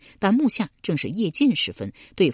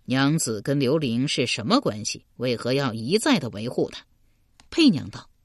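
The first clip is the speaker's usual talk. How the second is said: 黑衣男子声; 3 semitones lower than usual. Acted. 黑衣男子低沉的角色声.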